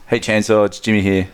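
understated practice impersonation; Jimmy impression. Shown as a demonstration. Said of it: "I'm just gonna be like".

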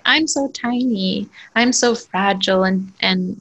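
put-on sweet, tiny little-girl voice; baby voice. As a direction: play up being small and fragile. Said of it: "she talks in, like, a little baby voice".

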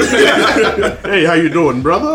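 lightly put-on announcer greeting; mock radio voice. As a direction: imitate a radio host introducing himself on the street. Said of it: "talking to me like this".

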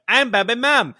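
put-on high, loud caricatured Asian accent; mock Asian accent. Comedian making fun of Bobby, mock Asian accent. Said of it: "like, the Asian accent".

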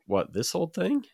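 high, coy acted reply; mock modesty. He answers girls admiring his accent, with mock modesty. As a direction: play it coy, pitched well up.

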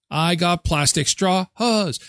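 slow, drawn-out boast; singsong brag; slow gloating taunt. Pretend. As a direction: gloat over the straws slowly. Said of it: "repeated taunt, second take softer".

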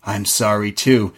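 low, measured mock psycho; a hint of movie psycho; Anthony Perkins. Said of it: "a little bit of Anthony Perkins".

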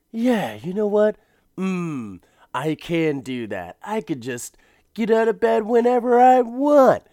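put-on high, loud smug old man; hammed-up delighted retiree. Husband realises he can sleep in.

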